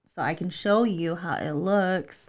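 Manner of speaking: slow, measured parent explanation; retold patient mom talk, drawn out; explaining to child. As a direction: lay it out step by step for an upset kid. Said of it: "I had to explain to her".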